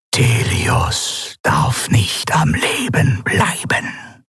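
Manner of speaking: tonlos und sehr langsam geflüstert; Flüstern. Acted. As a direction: hauch das Todesurteil langsam heraus. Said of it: "flüsterte Sylravan". (Gouverneur flüstert dem Admiral ein Todesurteil zu)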